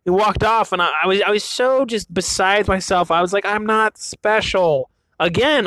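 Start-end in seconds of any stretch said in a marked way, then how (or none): 3.5-4.9 slow, drooping self-pity; hammed-up deflated sigh of a line; mock dejection. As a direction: sulk it out. Dejected after learning birds common.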